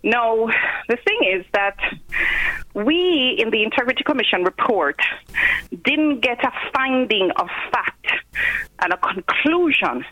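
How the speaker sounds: panting after climbing stairs; talking while out of breath. Real, not acted. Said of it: "Sorry, I'm panting. I just came upstairs".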